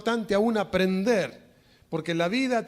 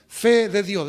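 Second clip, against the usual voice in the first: called out; 6 dB louder, slower than usual. Acted. Preacher calls out the phrase.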